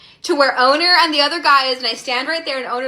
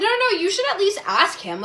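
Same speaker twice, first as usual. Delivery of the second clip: high-pitched imitation of urging; hasty reassurance; 8 semitones higher than usual. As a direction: rush in to talk them round, pitched high. Retold friend hastily backtracking, encouraging.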